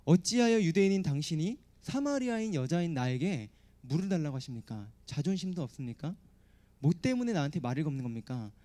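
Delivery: Samaritan woman's lightly mocking retort; understated sneering questions; mild sarcasm. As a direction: needle him with a touch of scorn. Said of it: "비꼬면서 지금 얘기하고 있는 거예요".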